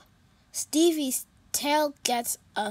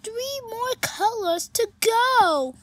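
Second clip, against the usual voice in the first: a touch higher, quick unicorn voice; lightly voiced sad unicorn; 9 semitones higher, 5 dB louder than usual. Stevie telling Pete about the party, lightly worried.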